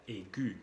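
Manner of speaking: "aigu" as ay-gü, final vowel clearly sounded; "aigu" ending on a rounded ee; well-marked U. Shown as a demonstration. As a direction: mark the French u ending "aigu". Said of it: "bien marcada esa letra".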